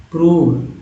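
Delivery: प्रूव with a clear long ऊ; long oo sound. Shown as a demonstration. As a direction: model the oo vowel in प्रूव. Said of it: "यहाँ पर उच्चारण ऊ हो रहा है".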